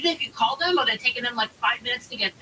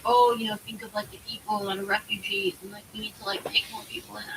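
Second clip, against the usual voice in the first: mock them under your breath; mocking parody. Mocking the refugee argument.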